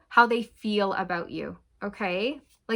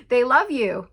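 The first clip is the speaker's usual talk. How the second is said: happy announcement; 6 dB louder than usual. Real, not acted. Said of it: "you guys".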